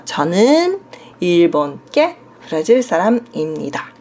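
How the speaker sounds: 저는 일본계 브라질 사람입니다 read fast in Korean. Shown as a demonstration. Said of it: "tá escrito aqui, ó". (leitura rápida em coreano)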